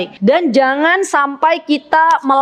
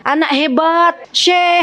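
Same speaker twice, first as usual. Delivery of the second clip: praising call; 4 semitones higher, slower than usual. Shown as a demonstration. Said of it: "Biasakan memanggil dengan panggilan yang baik".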